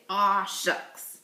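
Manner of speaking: Aw said long, then shucks, in a playful folksy tone; hammed-up aw shucks for the kids; mock aw shucks. Shown as a demonstration. Teacher modelling the response for pupils, playfully. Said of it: "I want you to say".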